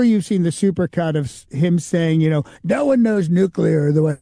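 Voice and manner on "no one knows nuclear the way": a light Trump voice; Trump impression. Impressionist quoting Trump's nuclear boast in a light Trump voice. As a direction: lightly drop into Trump's cadence.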